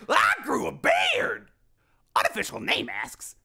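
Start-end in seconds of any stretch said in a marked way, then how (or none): 0.1-1.5 much higher, slow gleeful boast; proud exclaim. Acted. Fiddleford boasting about his change, gleeful. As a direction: crow it proudly.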